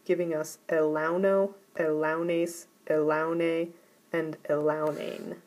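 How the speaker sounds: elauno said e-LAU-no, the accent on the second to last syllable; elaunes, elaune and elaunane each stressed on LAU, careful and deliberate. Shown as a demonstration. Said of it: "the acute accent will go on the second to last syllable".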